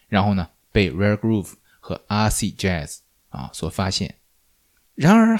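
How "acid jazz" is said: "acid" with a lengthened opening AA; stress on the first syllable. Shown as a demonstration. Naming the genre with pointed correctness, "acid" front-stressed. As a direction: lean deliberately on the front of "acid". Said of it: "这个词的重音应该在前面".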